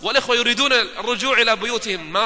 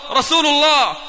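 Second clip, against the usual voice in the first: exclaimed testimony; 4 semitones higher than usual. Retold or imitated. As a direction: burst out with the final words. Convert's shahada peaks at its close.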